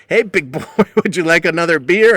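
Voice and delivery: mock flirty. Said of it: "amusing to watch her be flirty".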